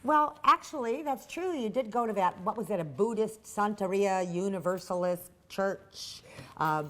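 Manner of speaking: loud scoffing coworker; mocking disbelief. Danielle mocking Rico's church group, loud and scoffing. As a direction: needle him, half laughing. Role-play scene as Danielle.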